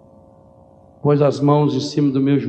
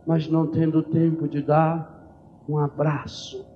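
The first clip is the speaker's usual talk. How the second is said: ordinary talk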